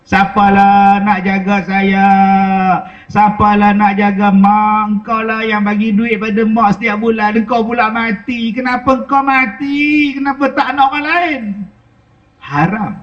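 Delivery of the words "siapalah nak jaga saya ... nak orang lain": wailing lament. Retold or imitated. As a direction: drag out the lament like a mourning mother. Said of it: "Yang tu meratap, meraung".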